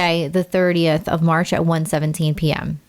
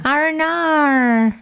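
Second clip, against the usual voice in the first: mock British; 7 semitones higher, 3 dB louder, much slower than usual. Shown as a demonstration. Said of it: "British people, when they say".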